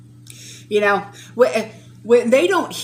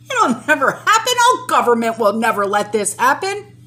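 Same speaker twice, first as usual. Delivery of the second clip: mocking family; 3 semitones higher, 5 dB louder than usual. Mocking doubting family member.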